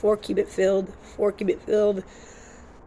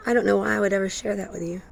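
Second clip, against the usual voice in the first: a hint of the channeled entity's voice, quicker and softer; 5 dB quieter, faster than usual. Shown as a demonstration. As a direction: lightly voice the spirit talking through you. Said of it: "she talks kind of like this".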